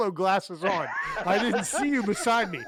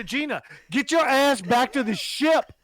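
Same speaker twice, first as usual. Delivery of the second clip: higher and louder, barking an order to a crew member; commanding over comm link; 7 semitones higher, 5 dB louder than usual. Acted. Captain orders Gina back to the ship over comm, loud command. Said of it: "I'm getting on my comm link, and I'm saying".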